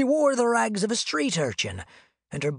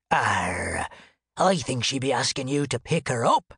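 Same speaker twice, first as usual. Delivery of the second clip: gruff pirate growl; 6 semitones lower than usual. Retold or imitated. Pirate quoting his shipmate.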